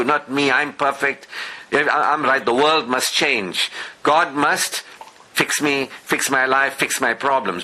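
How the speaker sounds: lightly voiced smug complainer, demanding God fix everything; mock self-righteous fool. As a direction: mimic someone sure they're perfect and blaming the world. Mimicking self-righteous loser.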